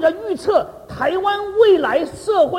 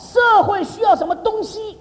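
slow, raised question with weight on "东西"; stress on 东西; 5 semitones higher, slower than usual. Shown as a demonstration. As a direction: repeat it slowly and higher, underlining "东西". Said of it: "其实注意，我讲的是东西哈".

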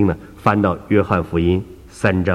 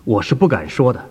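put-on higher, insistent elderly believer; a raised, fretful old lady's voice; earnest old woman; 4 semitones higher than usual. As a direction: plead your case as the humble churchgoer. Woman answers doctor.

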